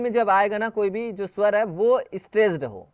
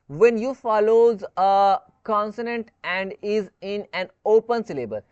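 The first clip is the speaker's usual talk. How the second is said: slow rule reading; much slower than usual. Shown as a demonstration. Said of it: "जब ये consonant यानी कि कोई व्यंजन के द्वारा फॉलो".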